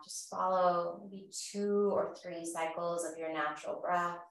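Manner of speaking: calm, measured yoga-teacher voice; guided breathing. Real, not acted. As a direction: gently guide them through each breath, unhurried. Leads guided breathing practice.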